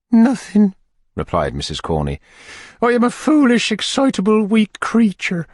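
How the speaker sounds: high and fluttering, slowing on weak creature; Missus Corney. Acted. Matron protesting to the beadle, high and fluttery.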